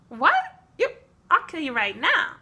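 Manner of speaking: mock fury, ready to kill; mock outraged threat. Vikings snap at the orcs, mock angry.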